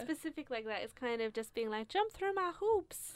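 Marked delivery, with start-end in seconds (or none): 1.9-3.1 slow, high-pitched taunt; mock demanding. Woman voicing someone with too-specific standards, mock demanding. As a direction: draw it out high, as a picky demand.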